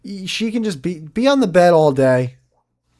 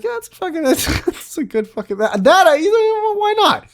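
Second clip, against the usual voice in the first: high, goofy mock-stoner voice, much higher; mock dude philosopher; 3 dB louder than usual. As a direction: squeak it out like a clueless bro philosopher. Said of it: "And it's like".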